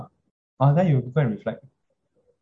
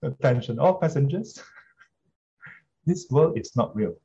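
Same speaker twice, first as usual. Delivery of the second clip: train station announcement. Pretend. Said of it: "maybe they should do that".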